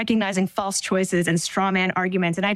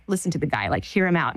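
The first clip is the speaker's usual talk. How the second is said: lower-pitched imitation of a calming boyfriend; gently calming; 4 semitones lower, faster than usual. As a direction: talk someone down, low and easy. Boyfriend calming her, hand on knee.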